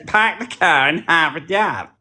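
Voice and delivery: mild attempt at a Boston accent. Shown as a demonstration. Brit tries Boston accent on request, a mild attempt. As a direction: drop the r's Boston style, lightly. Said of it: "to have a Boston accent and say".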